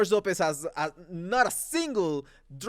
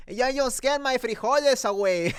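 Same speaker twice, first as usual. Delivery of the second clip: mock Mexican accent, pitched higher; exaggerated Mexican-accented quote, raised pitch; George Lopez; 4 semitones higher than usual. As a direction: imitate the movie line in a Mexican accent. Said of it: "it's basically the same accent".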